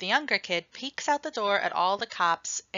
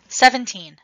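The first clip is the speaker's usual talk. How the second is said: loud, eager "Seventeen"; 12 dB louder than usual. Acted. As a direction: blurt it out, thrilled to answer. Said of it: "I say".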